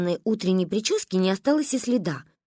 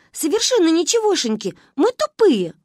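high, louder self-mocking cheer; gleeful; 9 semitones higher, 5 dB louder than usual. A narrator's reading. Girls gleefully call themselves stupid. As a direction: proudly declare it.

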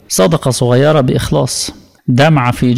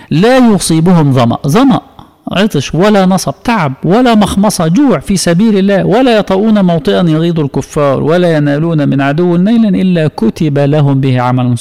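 raised preaching voice reciting the verse; fervent preaching; 4 semitones higher than usual. Acted. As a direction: proclaim it to the mosque with rising fervour. Quotes the verse with fervour.

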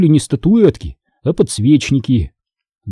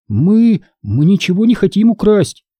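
stammering; 7 semitones higher than usual. A narrator's reading. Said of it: "заикаясь, пробормотала она".

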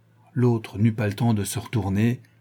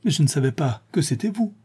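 higher-pitched, whining protest; plaintive moan; 6 semitones higher than usual. A narrator's reading. Wilson excuses himself to angry Sholmes, plaintive moan. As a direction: protest like a wronged, whimpering friend. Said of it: "gémit Wilson".

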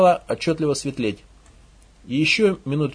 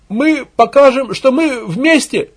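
high, slow, loud slogan; ranting rally cry; 9 semitones higher, 7 dB louder, slower than usual. Acted. Propagandist rallying villagers, frenzied cry. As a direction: stretch the slogan out over the crowd. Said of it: "кликушески возопил пропагандист".

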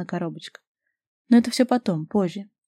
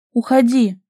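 insistent, higher Уходи!; stubborn louder take; 5 semitones higher, 7 dB louder, slower than usual. A narrator's reading. Vasilisa stubbornly repeats her demand to Robert. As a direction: stubbornly order him out. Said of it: "упрямо повторила девушка".

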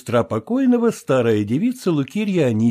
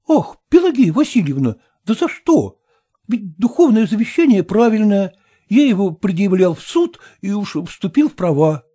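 raised, whining protest, only mildly tense; plaintive heir; 8 semitones higher than usual. Acted. Tupitsyn protesting to Pelageya, a high mild whine. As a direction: plead innocence with a sigh.

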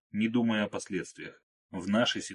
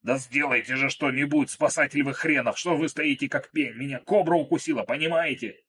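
higher, louder desperate rant; panicked angry yelling; 5 semitones higher, 4 dB louder than usual. Acted. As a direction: berate the rescuer in rising panic. Krot yells at his rescuer.

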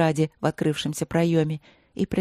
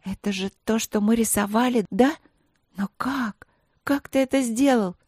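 put-on high girlish wonder, rising higher; delighted amazement; 5 semitones higher than usual. A narrator's reading. Princess seeing her drawing come alive, delighted. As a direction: marvel at it, eager to know how. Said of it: "Глаза её блестели от восторга".

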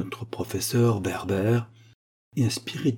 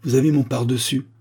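raised, indignant accusation; exclaiming; 3 semitones higher, 3 dB louder than usual. Acted. Teacher Werber accuses the pupil wearing his coat, raised voice. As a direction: call the boy out on the coat. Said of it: "s'écria-t-il".

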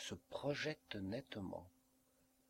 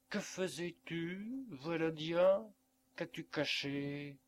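higher, anxious mother's question; a mother's sudden alarm, reaching for him; mother catching her son hiding something, uneasy; worried; 8 semitones higher, 3 dB louder than usual. Acted. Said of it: "Une inquiétude traversa ses grands yeux".

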